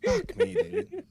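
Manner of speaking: high-pitched exasperated groan; exasperated squeal. Real, not acted. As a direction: squeal it in dismay. Caught out, exasperated.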